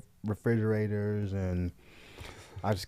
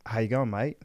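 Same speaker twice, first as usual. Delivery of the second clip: Australian accent. Shown as a demonstration. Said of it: "Let's hear your Australian accent".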